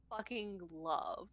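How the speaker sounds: whisper. Real, not acted. Unvoiced mid-question.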